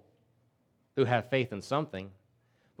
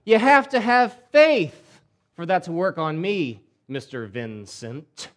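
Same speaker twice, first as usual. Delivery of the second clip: mocking vampire; 2 semitones higher, 4 dB louder, slower than usual. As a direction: sneer it at the vampire hunter. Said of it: "and he goes".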